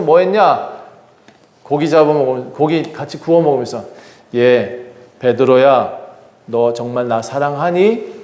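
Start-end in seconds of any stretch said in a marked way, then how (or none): 4.3-8.1 tender question. Acted. Jesus asks Peter tenderly.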